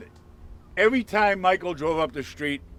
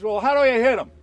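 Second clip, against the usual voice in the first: high, raised-voice question, imitated; calling across; 7 semitones higher, 5 dB louder than usual. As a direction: holler the question over the street. Question shouted across the street.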